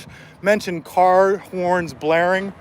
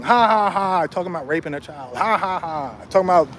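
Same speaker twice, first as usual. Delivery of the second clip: mock laughing; 3 semitones lower than usual. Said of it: "They're like, all laughing".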